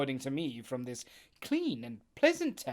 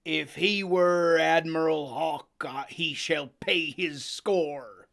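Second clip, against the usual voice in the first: cried out; 2 semitones higher, 7 dB louder than usual. Acted. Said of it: "cried Silver".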